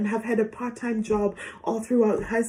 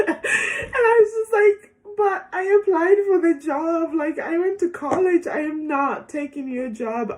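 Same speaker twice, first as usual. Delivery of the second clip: laughing protest; 9 semitones higher than usual. Retold or imitated. Nurse answering the stranger at the bus stop, laughing protest. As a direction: laugh in disbelief while protesting. Laughing, quoting her reply.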